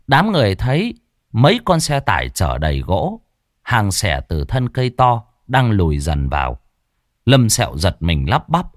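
plain reading voice

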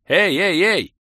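high, loud frantic calls; frantic shouting. A narrator's reading. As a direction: yell to snap him out of it. Shouting at frozen friend.

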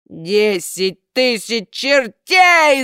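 loud, slow furious roar; roaring bellow. A narrator's reading. Karabas roars at Buratino in fury. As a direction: roar the curse. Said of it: "заорал Карабас-Барабас".

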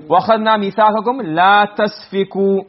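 rapid recited Arabic; quick quoted verse; fast recitation. Shown as a demonstration. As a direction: rush through the quoted phrase. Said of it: "So instead of saying".

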